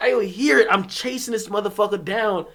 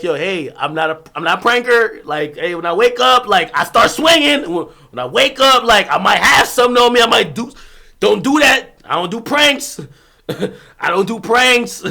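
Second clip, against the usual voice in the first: louder, firm warning; firm warning to roommates; 3 semitones higher, 6 dB louder than usual. Pretend. Telling white roommates his sleep rules, firm and loud warning. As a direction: lay down the law to pranking roommates. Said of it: "you gotta tell 'em, like".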